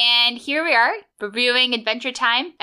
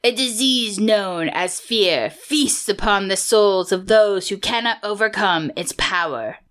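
imitated narration. Host quoting the episode's opening text, imitating the narrator. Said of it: "mimic the voice of it".

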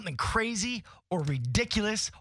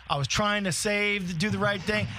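pointedly clarifying; 2 semitones higher, slower than usual. Retold or imitated. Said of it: "He wanted to make that very clear".

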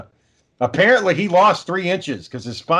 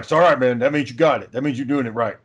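lightly voiced wrestler, lower pitch; a hint of a low-voiced coach reassuring a beginner; Hulk Hogan; 4 semitones lower than usual. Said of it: "And Hogan's like".

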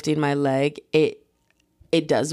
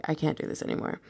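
breathy whisper to herself; whispered thought; 9 dB quieter, faster than usual. Retold or imitated. Fed up on the bleachers, whispering to herself. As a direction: whisper it, at the end of your rope.

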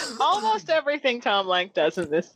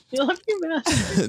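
slower, higher and more swooning; hammed-up dreamy devotion; 7 semitones higher, slower than usual. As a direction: draw it out like a lovesick minion. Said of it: "picturing Jonathan saying".

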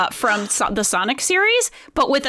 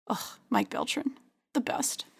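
adoring whisper; 11 dB quieter than usual. Real, not acted. Whispering fondly about her favourite referee. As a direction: whisper the name in awe.

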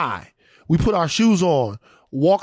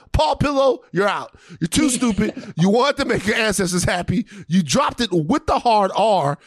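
mock shouting; 3 semitones higher than usual. Shouting at suspended principal.

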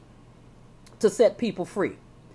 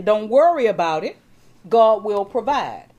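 stubborn refusal; 6 dB louder than usual. Acted. Man on the roof refuses the helicopter crew, loud and firm. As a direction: brush the rescuers off with stubborn faith.

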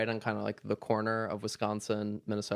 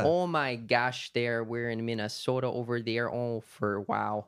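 put-on Minnesota accent; slower than usual. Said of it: "What is it, like".

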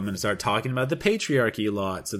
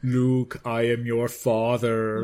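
Darth Vader; much slower than usual. Retold or imitated. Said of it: "So what is Darth Vader?".

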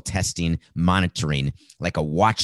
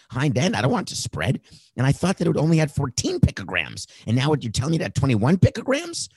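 mocking impression; 3 semitones higher than usual. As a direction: play dumb on the phone, pitch raised. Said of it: "Here's how it goes".

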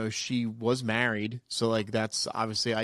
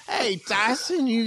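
put-on terrible Oklahoma accent, pitched higher; hammy Oklahoma accent for a pickup line; 9 semitones higher, slower than usual. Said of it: "that's a terrible Oklahoma accent".

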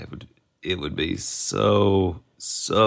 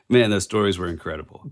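put-on Australian accent; 2 semitones lower, faster than usual. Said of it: "I did exactly like you did".

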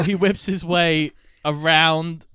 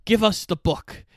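higher-pitched villain demand; lightly voiced Nazi; 5 semitones higher than usual. Nazis demanding the book, lightly acted villain voice. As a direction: make a demand as a mock movie Nazi. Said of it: "the Nazis do go".

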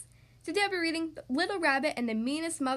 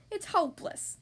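put-on higher-pitched childish grumble; hopeless grumble; 7 semitones higher than usual. A narrator's reading. Little rabbit kicking a stack of books, grumbling. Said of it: "Little Rabbit grumbled".

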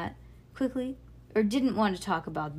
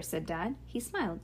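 usual speaking voice

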